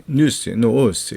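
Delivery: slow demo. Shown as a demonstration. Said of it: "이렇게요".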